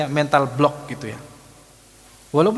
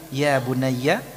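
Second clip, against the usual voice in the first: gentle; much slower than usual. Shown as a demonstration. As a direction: say it tenderly, easing down. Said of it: "itu intonasinya dengan kelembutan".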